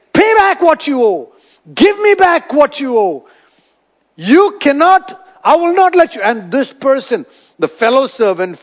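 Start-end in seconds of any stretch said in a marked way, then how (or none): 0.1-6.2 higher, louder furious demand; angry demand. Retold or imitated. A servant choking his debtor yells for payment. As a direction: shout at him to pay up. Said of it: "began to choke him, saying".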